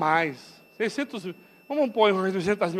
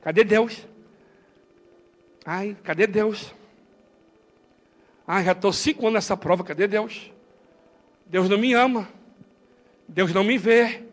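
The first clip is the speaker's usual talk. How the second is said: mock complainer; 2 semitones lower than usual. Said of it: "prefere parar e murmurar".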